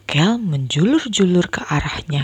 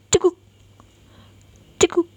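hiccups; 10 semitones higher, much faster than usual. Acted. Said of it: "Banyu mulai cegukan".

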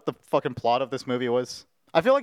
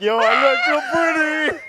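put-on girly voice; 13 semitones higher, 6 dB louder than usual. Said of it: "And I was like".

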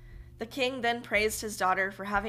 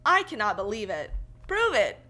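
louder indignant king refusing to believe; dumbfounded king; 3 semitones higher, 4 dB louder than usual. Acted. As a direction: challenge him in loud disbelief. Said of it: "utterly dumbfounded".

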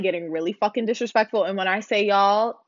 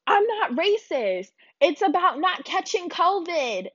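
much higher, slow whiny mock voice; mock Karen; 9 semitones higher than usual. Narrator mocking the Karen denying racism, high and whiny. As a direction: whine it like the Karen. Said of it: "And so she goes".

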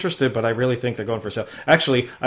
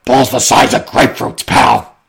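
loud, gruff wise-guy growl; gruff tough guy; 7 dB louder, slower than usual. Pretend. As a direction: lay it on like a mobster. Comic gruff tough-guy line.

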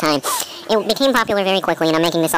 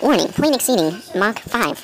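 slow announcement; slow, mechanical alarm voice; robotic warning voice; 4 semitones higher, slower than usual. Pretend. Mock automated warning.

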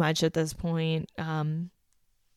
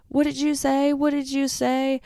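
much higher, mock furious challenge; imitated yelling; 7 semitones higher than usual. Candace yelling at Nilsa, mock fury. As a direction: confront her over and over. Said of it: "She starts yelling at Nilsa".

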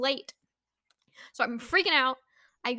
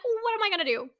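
higher, louder panicky cry; panicked; 8 semitones higher, 4 dB louder, faster than usual. Retold or imitated. Stuck driver panicking over her late appointment, higher and louder. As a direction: wail it like you're stuck and late. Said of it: "I am freaking the heck out".

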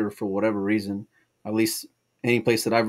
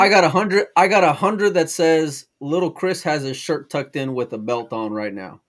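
high, loud playful wager; excited teasing bet; 8 semitones higher, 8 dB louder than usual. Real, not acted. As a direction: bet on it gleefully, laughing at him. Betting teasingly on friend's outfit.

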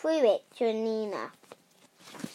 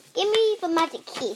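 higher, raised demand; shouted demand; 7 semitones higher, 4 dB louder than usual. A narrator's reading. Rosie wanting the key from the others, shouting. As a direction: demand it in a lifted story-book shout. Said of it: "shouted Rosie".

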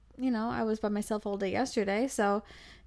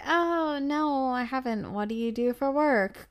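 higher, put-on curiosity; mock interest; 4 semitones higher, 4 dB louder than usual. Bored companion humoring his work hint, mock curiosity. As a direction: feign polite interest, opening on a high 'oh'. Asks grudgingly after being prompted.

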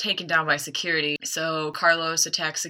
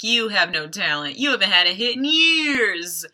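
retold rant, rising and louder; mock yelling; 4 semitones higher, 6 dB louder than usual. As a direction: build into an imitated angry yell. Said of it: "starts yelling at".

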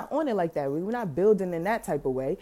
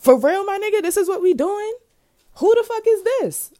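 much higher, louder outraged yelling at the driver; angry girlfriend; 11 semitones higher, 4 dB louder than usual. Retold or imitated. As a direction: fire it at him as the furious girlfriend. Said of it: "She like".

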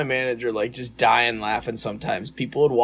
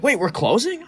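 fake surprise; 11 semitones higher than usual. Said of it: "I was like".

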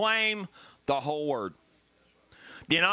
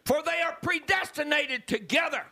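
higher and climbing to a shouted hold on; rally the church to hold on; building preaching; 4 semitones higher than usual. Acted. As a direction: pulpit crescendo ending in a shout.

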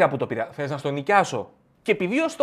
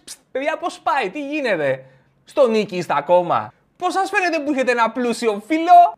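high, loud gloating jeer; taunting the broke friends, high and loud; 9 semitones higher, 6 dB louder than usual. Acted. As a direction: rub your wealth in their faces. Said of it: "αρχίζεις γίνεσαι εριστικός".

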